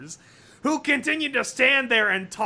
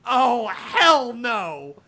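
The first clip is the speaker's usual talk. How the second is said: muttered refusal; 3 semitones higher, 5 dB louder, much slower than usual. Acted. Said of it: "Sunset muttered".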